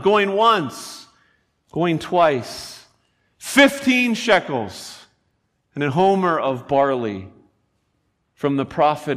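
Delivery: a hint of an auctioneer; lightly called-out bids. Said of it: "the auctioneer crying out".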